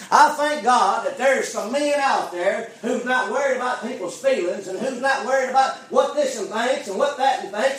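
emphatic preacher, swelling on key phrases; impassioned preaching. Real, not acted. Preacher thanking God for bold preachers, impassioned preaching. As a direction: declare it to the church with rising force.

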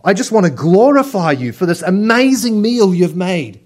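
high, gushing "Oh, chef" praise; gushing diner. Pretend. Diner praising the chef, high and gushing. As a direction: pour on the praise like an overexcited diner. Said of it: "you find the chef and you say".

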